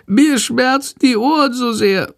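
small high sick bat voice, meek and whining; sick bat whimpering. A narrator's reading. Sick bat complaining to Jendrik, meek high whimper. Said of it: "jammert die kranke Fledermaus ganz kleinlaut".

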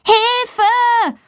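put-on girl stuck on the door calling for help; cry for help. A narrator's reading. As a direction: call for help as high as you can. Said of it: "ruft Valentina so laut sie kann".

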